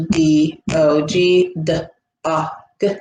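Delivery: D, O, G each said as a separate letter sound, with pauses between; spelled out letter by letter. Shown as a demonstration. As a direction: sound out D O G one letter at a time. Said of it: "words sounded out by individual sounds".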